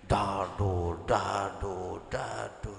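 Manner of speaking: low, evenly spaced mock beat; imitated music thump. Preacher mocking the neighbour's sound system, imitated thump. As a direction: mimic a thudding speaker in a low voice.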